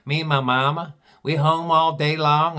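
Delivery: mock Southern small-town girl; deep Southern accent. Gal explains her family's talk, mock Southern accent. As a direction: chat along in an imitated Southern accent. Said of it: "She had a real deep Southern accent".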